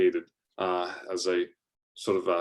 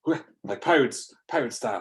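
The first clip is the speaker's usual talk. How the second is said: ordinary delivery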